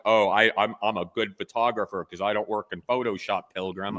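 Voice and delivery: lightly voiced gruff cowboy swagger, barely shifted; John Wayne. Mocking purist photographers, a light John Wayne put-on. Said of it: "whatever the John Wayne impersonation would be".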